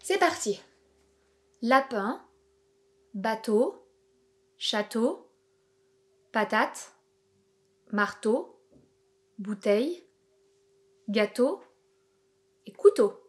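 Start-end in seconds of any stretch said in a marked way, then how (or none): 1.6-13.2 word list with shorter gaps between words; slightly quicker dictation, words still separate. Shown as a demonstration. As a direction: move along more briskly from word to word. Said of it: "Je vais les répéter plus rapidement".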